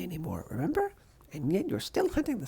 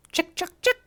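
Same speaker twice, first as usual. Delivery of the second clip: calling squirrels; 8 semitones higher, 6 dB louder than usual. Acted.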